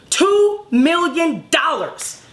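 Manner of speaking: Two million dollars drawn out slowly; slow emphasis. Real, not acted. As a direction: lean hard on Two. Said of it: "punchline of comparison".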